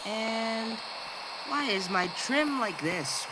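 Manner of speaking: slow, grand theatrical delivery; drawn out like a stage actor. Acted. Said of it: "Why am I talking in a very theatrical voice?".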